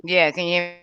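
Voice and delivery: glitchy robot-sounding connection; robotic mic voice. Real, not acted. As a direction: voice garbled like a robot over a bad line. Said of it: "you sound like a robot a little bit".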